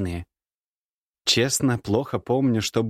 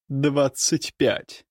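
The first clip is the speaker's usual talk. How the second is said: slow, higher dry reply; 5 semitones higher, much slower than usual. A narrator's reading. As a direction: say it dryly, curtly. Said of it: "сухо добавила она". (сухо)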